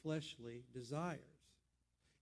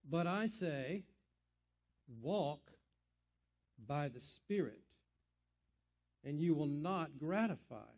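scripture reading. Acted. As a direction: read each phrase deliberately, letting it land. Reads the scripture aloud.

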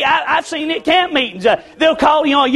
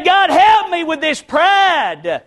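drawn-out, raised plea to God; preacher's pleading prayer, pitched up; fervent prayer; 4 semitones higher, much slower than usual. Acted. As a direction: cry out slowly in prayer. Acted cry to God in prayer.

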